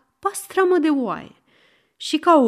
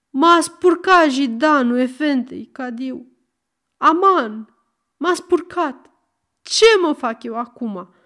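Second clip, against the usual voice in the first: louder, a hammed-up wail of despair; wailing lament; 3 semitones higher, 4 dB louder than usual. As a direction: lament like a man defiled. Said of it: "să se vaite". (bocet teatral, văicăreală)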